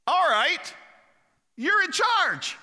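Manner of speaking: high, loud and slow grand pronouncement; drawn-out royal declaration; Pharaoh's decree. Acted. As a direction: hand over power in one breath. Pharaoh appoints Joseph on the spot.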